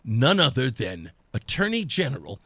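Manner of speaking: low, measured announcement; suspenseful, deliberate naming; dramatic reveal. Real, not acted. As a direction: drop the voice low for the big reveal. Dramatic reveal of the big guest.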